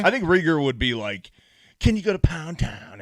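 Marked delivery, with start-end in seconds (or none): 1.8-3.0 nerdy voice. Retold or imitated. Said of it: "that little nerdy voice that he's got".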